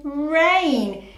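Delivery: rain said blended as one word. Shown as a demonstration. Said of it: "Let's read it together".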